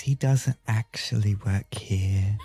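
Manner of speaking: hushed, confiding whisper; whispered aside. Acted. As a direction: whisper it behind his back. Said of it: "look over at all of you and say".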